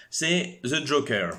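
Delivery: slow, careful English accent on the film title. Shown as a demonstration. Student presenting films names The Joker in a put-on English accent. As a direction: say The Joker like an English speaker, drawn out. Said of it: "j'ai même pris mon petit accent anglais".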